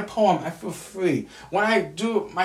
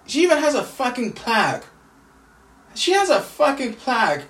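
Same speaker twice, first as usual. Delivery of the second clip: angry outburst; 5 semitones higher, 4 dB louder than usual. Real, not acted. Venting about sister's plaque.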